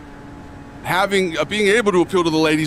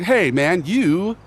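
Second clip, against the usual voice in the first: mock bro insult; 7 semitones higher, much slower than usual. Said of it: "It's like".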